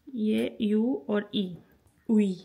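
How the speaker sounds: "ये यू और ई, उई sound" drawn out very slowly; patient slow teacher spelling; slow vowel demo. Shown as a demonstration. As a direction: break "उई" into "यू" and "ई", slowly. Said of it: "teacher spells out the vowel slowly".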